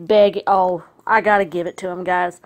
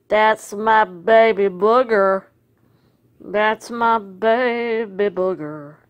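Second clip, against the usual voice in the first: doting pet talk; slower than usual. Real, not acted. Doting baby talk to dog.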